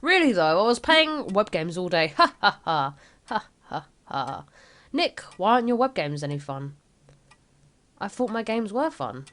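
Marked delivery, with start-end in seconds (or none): 2.2-4.5 forced laugh. Acted.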